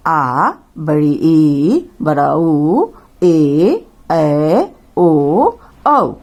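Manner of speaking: slow, low recital of each vowel, "आ", "ई", "ऊ" stretched long; long vowels drawn out. Shown as a demonstration. Teacher showing children the long vowels, slow stretched recital. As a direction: stretch every vowel "ए", "ऐ", "ओ", "औ" slowly for the class. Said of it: "दीर्घ स्वर कहते हैं".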